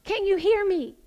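loud, high mock shout for attention; acted shout to God, starting at full force; emphatic shouting. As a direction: call out hard, then ease off. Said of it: "emphatic about it".

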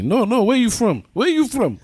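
high-pitched nagging "where you from"; mimicking pushy locals. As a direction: pester like a curious local. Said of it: "they keep asking me".

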